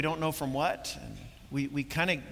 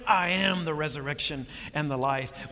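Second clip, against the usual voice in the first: firm, emphatic declaration; bold, confident; 2 semitones lower than usual. Retold or imitated. Jesus teaching Martha about triumph, bold and confident. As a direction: state it boldly, with full confidence. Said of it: "He's confident".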